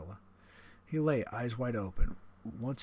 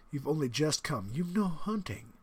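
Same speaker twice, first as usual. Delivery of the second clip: higher, louder, wounded protest; protesting general; 5 semitones higher, 4 dB louder than usual. Acted. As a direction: sound hurt and reproachful.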